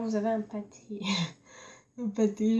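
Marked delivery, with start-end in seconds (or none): 2.0-2.6 laughing through the word. Real, not acted. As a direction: giggle while repeating it. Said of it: "j'aime bien comment je parle".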